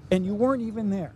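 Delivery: usual speaking voice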